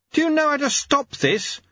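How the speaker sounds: very high-pitched cry; high, alarmed scream to the one steering; screamed question. A narrator's reading. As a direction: shriek it at controlled volume. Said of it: "screamed Lobsang".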